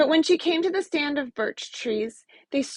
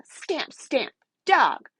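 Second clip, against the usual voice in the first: snarled; 3 semitones higher than usual. Acted. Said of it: "she snarled".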